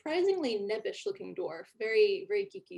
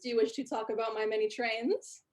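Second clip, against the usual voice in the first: nerdy dwarf; 2 semitones higher, 4 dB louder than usual. Acted. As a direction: greet them like a puffed-up hobbyist.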